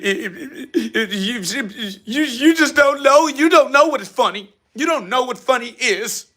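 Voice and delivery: rising into high laughing taunts, gasping through the giggles; laughing fit. Real, not acted. Laughing taunts at a failed comedian in the chat.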